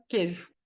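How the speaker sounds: "queijo" said as "quêjo"; "queijo" with a plain closed E before J; silent I. Shown as a demonstration. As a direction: drop the I glide in "queijo". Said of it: "Cadê esse I na pronúncia".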